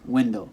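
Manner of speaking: WINDOW said WIN-doh, front stressed; stress on first syllable. Shown as a demonstration. Teacher showing native stress, window stressed on WIN. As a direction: put the weight on WIN in window. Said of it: "hear it on the second to last".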